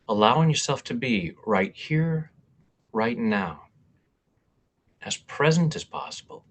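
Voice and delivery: measured guiding voice with long pauses; guided meditation. Real, not acted. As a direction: lead listeners through breathing and affirmations, pausing between phrases. Leads a guided intention meditation.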